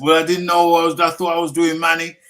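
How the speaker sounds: high, loud self-defence; flustered protest. Real, not acted. Explaining a botched accent to a laughing co-host, flustered and loud. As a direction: plead your case, voice jumping up and loud.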